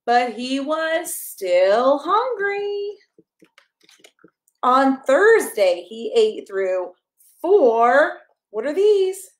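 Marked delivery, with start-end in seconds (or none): 0.1-3.0 slow, drawn-out but he was still hungry; slow storybook refrain. Acted. Reading a picture book to a child. 4.6-8.2 bright, sing-song picture book reading; reading to a child. Acted.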